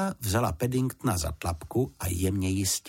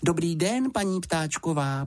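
a hint of a bright young girl, higher; lightly voiced girl; 9 semitones higher than usual. A narrator's reading. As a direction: greet her politely like a young girl. Girl's voice.

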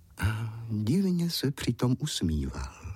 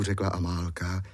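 usual speaking voice

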